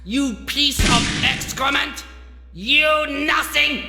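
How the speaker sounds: high-pitched, declamatory fury; grandiose angry rant. Acted. Doctor belittling the man who pitied him, grandiose fury. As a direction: thunder like a mad prophet. Villain rants at his enemy.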